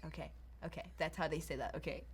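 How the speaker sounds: hushed, breathy self-talk while practising; half-whispered, noting it quietly; whispering to herself. Retold or imitated. Girl practising American phrases from TV, whispering to herself.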